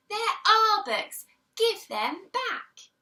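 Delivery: high, loud yell, slowing at the end. Acted. Children catch the book thief, yelling. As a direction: demand them back, all together. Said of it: "the children yelled".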